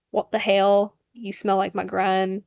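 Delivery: put-on a weak, half-hearted British accent; mock a British boyfriend badly, in a British accent. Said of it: "my British accent is horrible".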